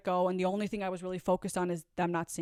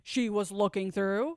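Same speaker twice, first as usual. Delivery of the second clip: slow, deliberate and pointed; retelling her own firm refusal, slowly; slow defiant retort; 5 dB louder, slower than usual. Retold or imitated. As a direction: spell each word out with attitude. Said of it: "And I'm like".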